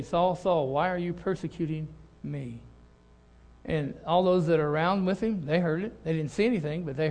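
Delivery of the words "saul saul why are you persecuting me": hushed voice from heaven. Retold or imitated. Voice of Jesus from heaven.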